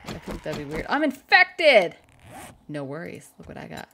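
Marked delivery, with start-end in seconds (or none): 0.9-1.9 slow, high, loud wail; dismayed shout. Real, not acted. Gamer wailing at the infection in a slow high shout. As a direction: cry it out like bad news.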